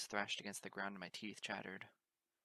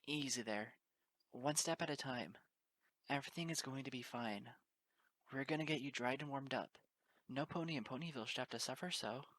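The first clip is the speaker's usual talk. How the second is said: gentle reassurance; 4 semitones higher than usual. Acted. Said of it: "she gently led the two of us".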